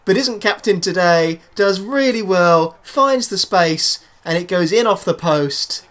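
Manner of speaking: excitement easing from the goal shout; excited goal commentary. Acted. Commentator describes the goal just scored, excitement gradually easing.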